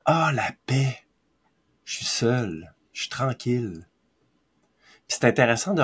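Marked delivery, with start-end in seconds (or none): 0.0-3.9 peaceful sigh. Retold or imitated. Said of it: "Puis solitude vient".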